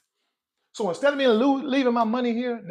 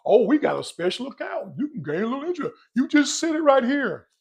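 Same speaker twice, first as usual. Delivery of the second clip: lightly voiced, higher-pitched banker; mock bank pitch; 8 semitones higher, 4 dB louder than usual. Bank rep selling a customer a special account, mock sales pitch.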